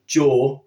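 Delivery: jaw begun with a hard dzh; English-style j. Shown as a demonstration. Warning learners off the English habit, hard j in jaw. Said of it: "like a lot of English people do".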